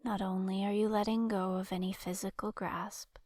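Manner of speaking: calm guided-imagery voice with long pauses between phrases; guided relaxation. Acted. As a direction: lead a listener into rest, leaving space to breathe. Leads guided relaxation exercise.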